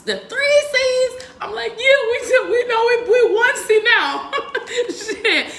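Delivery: high, loud words through laughter; laughing while talking. Real, not acted. Laughing through retold reply.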